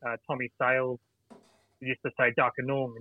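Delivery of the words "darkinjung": Darkinjung said as "Darkinoong", no J; elder's pronunciation. Shown as a demonstration. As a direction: say Darkinjung with an "oong" ending and no J. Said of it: "D A R K I N O O N G".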